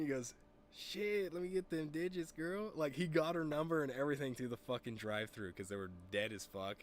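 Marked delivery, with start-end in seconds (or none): 0.8-2.7 imitated high-pitched pickup line; smooth flirt.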